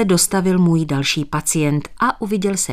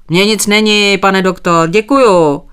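friendly, louder reply from a patient; 3 semitones higher, 6 dB louder than usual. A narrator's reading. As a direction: brush it off amiably, voice up. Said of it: "odpověděl přívětivě".

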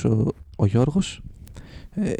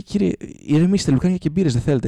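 higher-pitched mock guard voice, soothing; calming guard; 5 semitones higher than usual. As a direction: humour him like a patient guard. Guard calming the shouting George.

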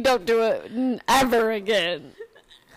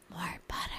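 retold translation; 6 semitones lower, 17 dB quieter, faster than usual. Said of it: "Corey's finally like".

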